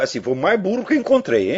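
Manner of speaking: words broken up by laughter; amused, chuckling as he says it; laughing. Real, not acted. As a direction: laugh through the punchline. Laughs at the dumbest driver.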